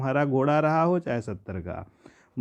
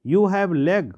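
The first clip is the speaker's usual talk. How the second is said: higher, louder mock shout; uncle shouting; 4 semitones higher, 4 dB louder, much slower than usual. Uncle yells at the farmer about his legs, mock shout. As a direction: snap it like the irritated uncle. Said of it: "my uncle Khusro shouted".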